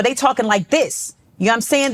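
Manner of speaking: lightly shown New York way of talking. Shown as a demonstration. Showing how New York rappers talk, New York talk. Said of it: "This is how New Yorkers talk".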